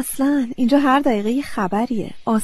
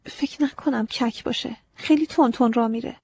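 miserably; 2 semitones higher than usual. Acted. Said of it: "با بدبختی گفتم".

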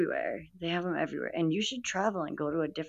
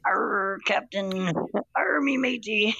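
pirate voice; 4 semitones higher, slower than usual. Pretend. Pirate play after raspy voice talk.

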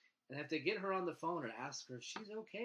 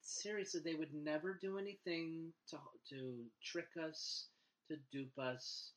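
mock-sincere, higher voice; sarcastic; 4 semitones higher than usual. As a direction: play naive government fan, sarcastically. Mocking government defenders sarcastically.

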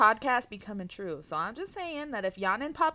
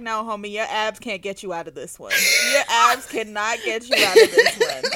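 laughing scolding; 2 semitones lower, 4 dB louder than usual. Retold or imitated. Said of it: "I was like".

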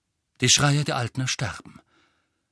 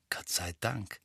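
breathy hushed whisper; 8 dB quieter than usual. A narrator's reading. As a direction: whisper it urgently. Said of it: "flüsterte Hermine".

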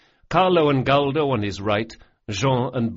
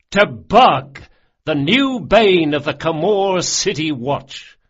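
much louder, higher, ringing out; rousing toast; 6 semitones higher, 8 dB louder than usual. A narrator's reading. Locke toasting Bug to the crew, rousing. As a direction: raise the glass and rally the table.

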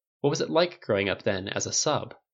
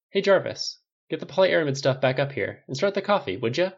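higher, lively casual command; calling out orders; 6 semitones higher than usual. Acted. Inventor telling his assistant to start coffee, casually calling out. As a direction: call across the room to an assistant, lightly.

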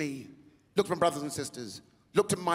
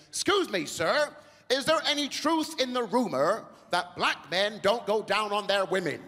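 put-on higher, slow, prim old gentleman voice; posh old gentleman; 4 semitones higher, slower than usual. Seventy-five-year-old audience member asking a question, prim. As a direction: ask it like a proper elderly Englishman. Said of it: "He goes".

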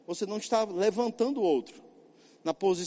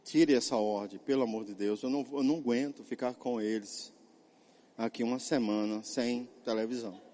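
soft, low pleading; wife begging her husband late at night, soft and pleading; 12 semitones lower, 6 dB quieter than usual. Retold or imitated. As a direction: beg him gently to lift the punishment. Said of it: "Célia chegou pra mim à noite e ela disse".

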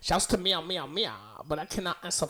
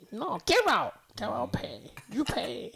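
mock shopkeeper; 5 semitones higher, 3 dB louder than usual. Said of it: "I'm Puerto Rican. You can't do it to me".

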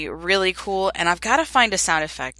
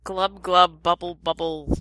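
gurgling glub glub like a fish; fish noise; slower than usual. Pretend. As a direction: bubbly mouth at waterline sounds. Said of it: "fish noise".

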